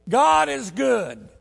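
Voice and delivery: slow, high, loud proclaiming; high, drawn-out shout of praise; praise call. Retold or imitated. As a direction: cry it out in relief. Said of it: "And somebody will say".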